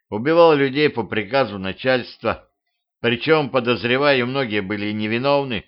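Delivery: lightly voiced weary tiger; a hint of a bitter beast; tiger mercenary voice. Tiger confesses being executioner.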